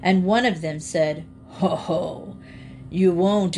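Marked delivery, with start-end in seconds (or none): 1.5-3.6 mocking alligator laugh. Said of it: "the alligators only laughed".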